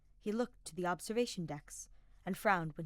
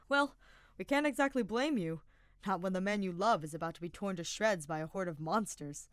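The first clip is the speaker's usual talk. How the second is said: amused teasing; 5 dB louder than usual. Acted. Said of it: "Sylvain hummed in amusement".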